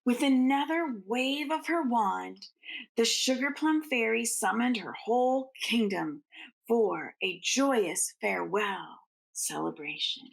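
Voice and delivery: gentle bedtime storytelling; storybook narration. Acted. Reading the Nutcracker aloud to children, gently paced. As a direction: read it like a picture book to little ones.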